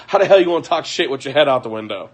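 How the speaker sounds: words broken by laughter; laughing. Real, not acted. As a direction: talk fast while laughing. Laughing at the boyfriend.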